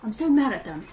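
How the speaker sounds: put-on a light British accent as a sulky boy; British accent diary. Game master reads Zeke's childhood diary to players, light British accent. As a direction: read the boy's diary in a mild British accent. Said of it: "we'll try the accent again".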